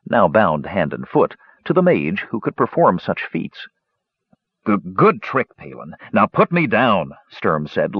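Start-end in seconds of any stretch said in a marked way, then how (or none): 4.6-7.1 nervous stammer. A narrator's reading. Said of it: "glancing beneath him nervously".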